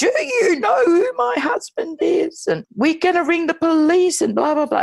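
put-on very high, drawn-out yell at top of lungs. Retelling how a woman yelled while being dragged into a lift: imitating someone yelling. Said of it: "Clara's yelling at the top of her voice".

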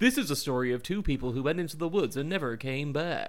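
eerie, creepy text-to-speech storyteller voice. Describing creepy stories on TikTok and imitating the TikTok AI voice like a creepy guy. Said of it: "the AI voice which is like a creepy guy going".

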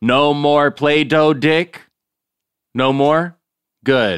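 shouting. Joking loudly in a hotel lobby: yelling. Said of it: "Stop yelling".

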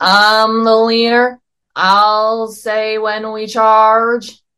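loud, very slow, weird squeaky Southern drawl. Quoting a character's line while discussing the movie: Pat Buttram voice. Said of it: "I'm trying to not do Pat Buttram's voice".

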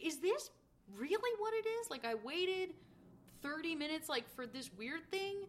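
honestly baffled, disbelieving, not mean, acted-out incredulity. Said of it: "she's saying it in, like, incredulity".

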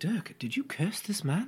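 said quietly. Playing a character in a game, asking Dirk a question: said quietly. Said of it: "I'm going to say quietly".

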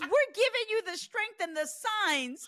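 very high, loud, exasperated, sarcastic, acted-out annoyance. Retelling a woman's reaction to being told it was harassment, mock-annoyed. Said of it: "she is so annoyed that you said it was harassment".

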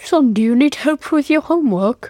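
sudden, out-of-nowhere put-on British accent. Asked about looking after the children, speaker acts out asking a son about homework in a sudden British accent. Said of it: "why do I sound British all of a sudden?".

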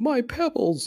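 very high, pitched way up cartoon-character voice. Retelling a Christmas commercial, quoting Barney: imitating Barney Rubble. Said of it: "Barney's like".

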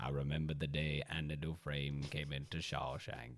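very deep, low, slow, unhurried narrator voice. Dared to try an impression of him: deep narrator impression. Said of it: "To be able to do an impression of him".

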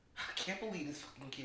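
put-on disgusted man voice. Retelling how a man walked over to a kid: imitating a disgusted man. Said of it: "he was like disgusted".

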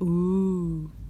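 mock spooky ghost voice. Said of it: "That was my spooky voice".

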